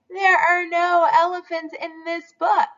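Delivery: lightly voiced firm father; father chicken. A narrator's reading. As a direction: correct the child like a patient dad.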